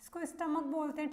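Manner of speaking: स्टमक with a hard k at the end; teacher showing the right way to say स्टमक; correct pronunciation. Shown as a demonstration. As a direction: say स्टमक ending in k, not स्टमच. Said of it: "कई बच्चे इसको स्टमच बोलते हैं".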